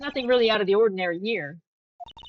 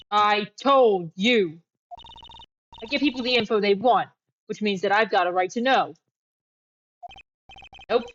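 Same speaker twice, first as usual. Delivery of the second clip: pushy reporter Lotta; 3 dB louder than usual. Acted. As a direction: push your way in like a nosy reporter.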